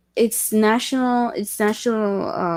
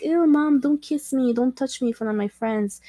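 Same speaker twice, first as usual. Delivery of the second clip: put-on whiny kid; 4 semitones higher than usual. Imitating embarrassed American kids.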